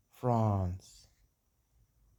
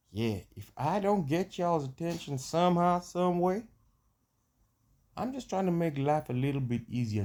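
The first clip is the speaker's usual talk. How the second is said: high, slow put-on Black American accent, y'all and ain't; put-on American drawl; 4 semitones higher, 5 dB louder than usual. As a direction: play a loud American homeboy in a put-on accent. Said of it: "when I get this here accent".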